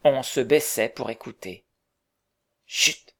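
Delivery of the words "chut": sharp hiss for silence; hushing. Acted. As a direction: shush the crew urgently. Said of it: "disait Tom".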